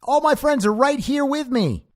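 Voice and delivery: high, loud hammed-up shout back; mock Ricky yelling back. Ricky shouting back from the gate, high and loud. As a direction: yell back happily from behind the gate. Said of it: "Ricky starts screaming back".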